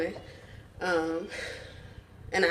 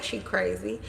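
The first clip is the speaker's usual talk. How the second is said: dismissive dad; 10 dB quieter than usual. Retold or imitated. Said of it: "He like".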